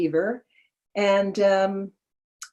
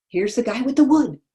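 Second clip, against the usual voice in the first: higher-pitched, mildly excited retold cry; excited announcement; 7 semitones higher, 4 dB louder than usual. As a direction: announce the arrival, lightly acting it out. Acted announcement of exciting wood delivery.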